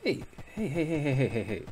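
loud repeated hey; calling out. Real, not acted. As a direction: shout hey to get its attention. Calling out to animal.

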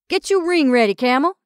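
officiating. Acted. Jumbo officiating.

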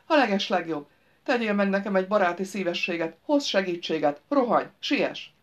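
urgent appeal to a simpleton; trapped driver, coaxing. Acted. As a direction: coax him, then hurry him along.

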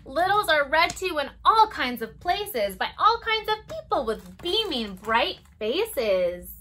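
lilting storybook read-aloud; circle-time story voice; reading to children. Acted. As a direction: read it gently to toddlers. Reads picture book to children.

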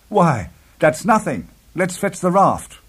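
high, slow, emphatic bravado; eager cry. A narrator's reading. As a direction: brush it off eagerly and rally the others. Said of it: "I cried".

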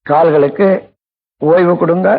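measured meditation voice, long pauses; guided relaxation. Real, not acted. Teacher guiding listeners to relax feet and knees, unhurried meditation delivery. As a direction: guide them through it phrase by phrase, stretching key words. Leads a body relaxation exercise.

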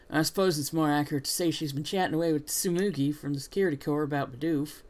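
put-on quick southern-accented correction. Rival amending what was said, southern accent. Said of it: "what it is about a southern accent".

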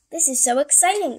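high, loud, thrilled exclamation; excited kitten. Acted. Baby Scaredy Cat awaits the package, excited. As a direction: burst out with excitement.

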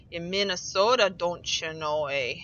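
lightly put-on Minnesota O's; Minnesotan accent. Shown as a demonstration. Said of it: "that's how you speak Minnesotan".

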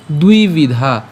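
"দুই বিধা" slowly, long u-i and aspirated dh; pronunciation demo. Shown as a demonstration. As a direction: draw out "দুই বিধা" in two clear words. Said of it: "উচ্চারণটা কেমন হচ্ছে".

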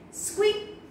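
high toy squeak; rubber ducky squeak. Acted. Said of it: "rubber ducky said".

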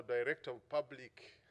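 PUBLIC given extra weight and volume; emphasis on PUBLIC. Real, not acted. Prosecutor explains his office versus a judge's, stress on PUBLIC. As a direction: lean firmly on the word public. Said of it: "emphasis on public".

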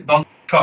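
"দন্ত স" said distinctly as a model; standard pronunciation. Shown as a demonstration. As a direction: pronounce the letter name "দন্ত স" carefully for learners. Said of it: "এটার উচ্চারণ হবে".

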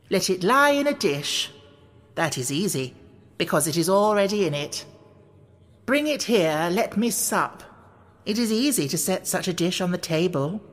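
measured verse with lilting pitch; riddle poem recitation. A narrator's reading. White Queen recites her fish riddle to Alice, lilting verse. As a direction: recite line by line, pausing between phrases.

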